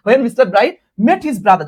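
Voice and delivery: a teacher stretching each word for students to follow; slow dictation. Shown as a demonstration. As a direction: read it out to the class at dictation speed. Reading the passage aloud slowly.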